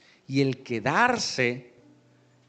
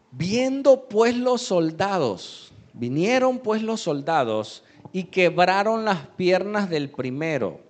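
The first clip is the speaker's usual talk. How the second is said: higher, louder pulpit reading; scripture reading; 5 semitones higher, 5 dB louder than usual. Real, not acted. Preacher reads how the soldiers came, emphatic scripture reading. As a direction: proclaim the verse to the congregation.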